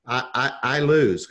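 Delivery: stammering on "I" before "I lose"; stuttering. Retold or imitated. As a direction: trip over "I, I" then get it out. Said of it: "I stuttered a little bit".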